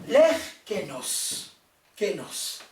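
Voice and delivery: "l'air kénos" said slowly and loud, "l'air" stretched; slow stress on l'air kénos. Shown as a demonstration. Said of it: "L'air, c'est une seule syllabe". ("l'air kénos" lentement et fort)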